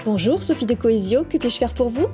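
customer service voice. Shown as a demonstration. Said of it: "Ou bien".

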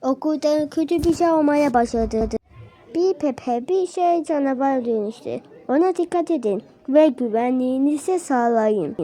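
soft-spoken mock news bulletin; pretend newsreader. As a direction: report it like a TV presenter, quietly. Plays newsreader announcing a monster.

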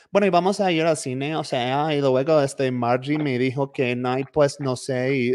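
lightly voiced Mexican fresa, Valley girl in Spanish. Imitating Guadalajara fresa speech for the host, lightly voiced Valley girl. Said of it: "equivalent of a Valley girl. So you'll hear it's like".

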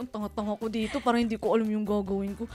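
soft self-critical muttering; muttering to herself. Retold or imitated. New caregiver scolding herself, soft muttering. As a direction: softly berate yourself. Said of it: "sabi ko".

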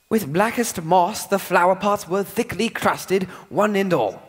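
slow, every word crisp; exaggerated enunciation. Shown as a demonstration. Higgins models the poem for Eliza. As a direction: clear as a bell. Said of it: "enunciate each word".

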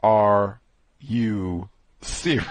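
drawn-out incredulous question; slow disbelief. Real, not acted. Reacting to the story in slow disbelief. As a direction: ask it slowly, stunned.

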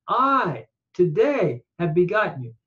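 "I" stretched and set apart; emphatic I. Shown as a demonstration. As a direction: lean on "I", then continue the verse. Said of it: "is emphatic because we wouldn't need it".

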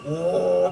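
mock engine noise, droning oh-mm; imitated turbo engine drone. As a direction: hum it like the muffled new engine. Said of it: "เสียงมันจากเดิมมันจะแบบ".

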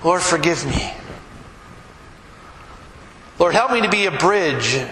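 earnest spoken prayer. Acted. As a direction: pray humbly for the congregation. Pastor leads closing prayer.

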